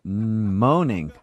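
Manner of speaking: chewing, half laughing; words round a mouthful; mouth full. Pretend. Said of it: "You weren't moaning when I was talking?".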